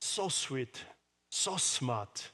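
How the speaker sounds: soft, doting praise for daughters; tender praise. Retold or imitated. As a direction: gently coo the compliments. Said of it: "딸들에게는".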